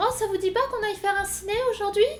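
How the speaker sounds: very upward intonation, voice rising strongly throughout. Describing someone who talks with a very rising voice: strongly rising voice throughout. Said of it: "vous parlez avec la voix vachement montante".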